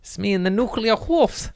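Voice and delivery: high, squeaky put-on child voice; little Chernobyl kid. Chernobyl kid introducing the nuclear wolves, high silly voice. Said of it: "That's how they sound in Chernobyl".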